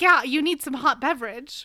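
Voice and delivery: light teasing imitation of a friend; imitating Amanda. Friend teasing Amanda about her catchphrase, light imitation. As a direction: echo her catchphrase playfully. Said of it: "she's like".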